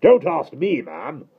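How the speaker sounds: high, loud bark; admiral's shout. A narrator's reading. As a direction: shout her off. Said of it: "shouted Admiral Boom".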